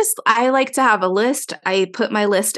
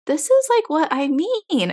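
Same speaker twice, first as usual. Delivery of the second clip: exasperated; 7 semitones higher than usual. Retold or imitated. Exasperated remark to Joe.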